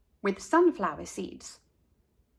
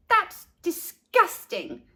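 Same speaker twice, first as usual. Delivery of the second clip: slow, said with tongue out; grossed out, tongue stuck out; tongue sticking out; 8 semitones higher, slower than usual. A narrator's reading. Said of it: "sticking out her tongue".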